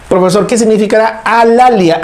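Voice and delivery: a touch of a curious pupil raising a question; student asking. Acted. Teacher voicing a pupil who asks about alalia, lightly acted.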